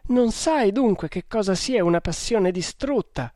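high-pitched anguished reproach; crying with rage. A narrator's reading. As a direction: throw the question out in tearful anger. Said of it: "piangendo di rabbia". (rimprovero piangente e rabbioso)

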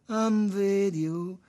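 high, loud, drawn-out exclamation; intrigued. A narrator's reading. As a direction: stretch it out with loud curiosity. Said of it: "fece incuriosito". (esclamazione incuriosita)

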